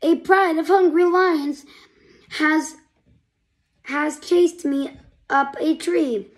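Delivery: high, loud frightened cry; crying for help. Acted. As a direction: call for help from a tree. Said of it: "heard a voice cry".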